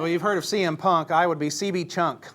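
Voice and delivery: wrestler name pitch. Pretend. Asked his wrestling name, he proudly jokes.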